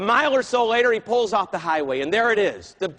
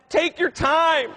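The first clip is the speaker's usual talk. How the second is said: relaxed; 8 semitones higher, 3 dB louder, much slower than usual. Retold or imitated. Relaxed passenger enjoying the ride.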